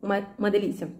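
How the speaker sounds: talking with mouth full; words round a bite of food. Real, not acted. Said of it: "falando com a boca cheia".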